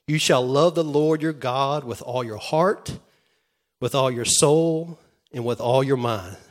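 loud, proclaimed verse; loud preaching of scripture; fervent scripture quote. Real, not acted. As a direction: declare the commandment with full force. Quoting the greatest commandment.

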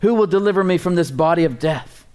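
pleading cry of a failing man; anguished lament. Acted. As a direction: read it as a man at the end of himself. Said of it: "Romans seven twenty-five".

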